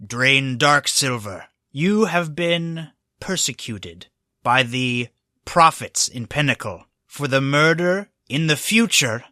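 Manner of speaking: slow, measured formal pronouncement; a touch of solemn lawman; lightly voiced officer reading charges. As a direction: hand down the charge word by word. Bearded officer reads out the charges.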